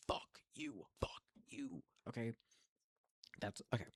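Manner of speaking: fuck you breathed out in a whisper; fading to a whisper. Real, not acted. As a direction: let it die to a hiss of a whisper.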